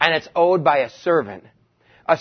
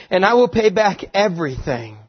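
pleading, a bit higher; lightly acted plea; begging servant; 4 semitones higher than usual. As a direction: beg the master for time. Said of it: "he begged".

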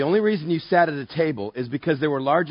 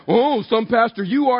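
higher, chiding conscience; little inner voice; 7 semitones higher, 4 dB louder than usual. Acted. Inner voice shaming the pastor, higher mock chiding. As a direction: scold like a small inner voice, pitched up. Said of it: "this little voice goes".

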